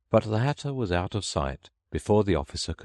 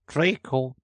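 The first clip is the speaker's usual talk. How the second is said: sleepy voice; 8 semitones higher than usual. A narrator's reading. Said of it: "said a sleepy voice".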